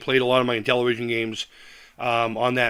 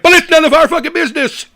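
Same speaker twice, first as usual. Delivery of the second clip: laughing; 13 semitones higher, 10 dB louder than usual. Real, not acted. Laughing rant.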